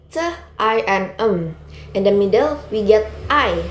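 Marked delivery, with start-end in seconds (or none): 0.1-1.6 "T", "I", "M" as separate sounds; sounding out letters. Shown as a demonstration. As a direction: sound out "T" as tuh, then "I", then "M". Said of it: "consists of sound that is".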